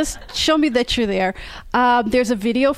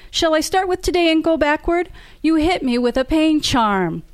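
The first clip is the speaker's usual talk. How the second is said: higher, sarcastic indignation; indignant; 5 semitones higher than usual. Acted. Rachel throws grievances at Trent, sarcastic indignation. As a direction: start the list with biting sarcasm.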